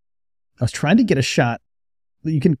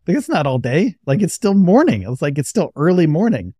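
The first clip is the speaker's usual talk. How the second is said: high, loud disbelief that it's only morning; incredulous retort; 5 semitones higher, 3 dB louder than usual. Retold or imitated. To the angry lady, high and loud: it's still morning. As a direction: push it up in pitch, half laughing at the absurdity. Mocking her claim of waiting all day.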